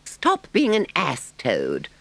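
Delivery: high, exasperated plea; despairing cry. Acted. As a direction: give up on him as you cry out. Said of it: "cried the mole despairingly".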